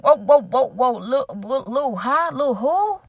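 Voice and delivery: rising, offended "whoa" repeated, then a sharp "Lil who?"; incredulous disbelief. Retold or imitated. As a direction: stop her cold, amazed at the word. Reacts to insult in argument.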